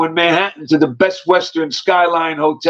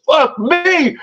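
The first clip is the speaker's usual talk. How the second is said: high-pitched mock outrage; raised, acted incredulous retort; retold angry retort; 8 semitones higher than usual. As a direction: imitate his outraged comeback. Man retorts in escalating retold quarrel.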